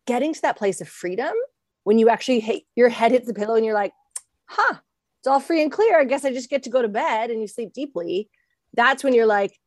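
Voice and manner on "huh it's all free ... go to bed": relieved surprise. Retold or imitated. Imagined relief at bedtime.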